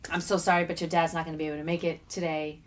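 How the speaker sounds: mother softly telling her daughter dad isn't coming; gentle bad news. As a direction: break it to a child tenderly. Mother breaking news to child.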